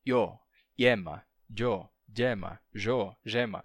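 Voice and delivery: yo and yema with consonant starts; consonant onsets. Shown as a demonstration. Teacher showing correct Spanish consonants. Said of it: "É sempre".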